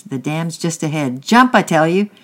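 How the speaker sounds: builds to a loud, high shout on jump; shouted warning. A narrator's reading. Angry man in the river shouting to boys in boat. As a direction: warn them, then order them hard. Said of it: "shouted the angry man".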